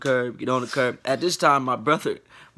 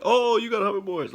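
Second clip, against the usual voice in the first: high, teasing voice of people around; mock impressed bystander; 8 semitones higher than usual. Others teasing him about his hoverboards, high mock voice. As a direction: imitate someone marveling at hoverboards.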